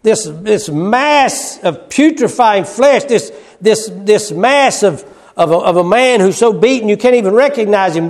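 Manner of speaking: high, slow, disgusted "this"; mocking sneer. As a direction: spit out their contempt. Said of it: "they said".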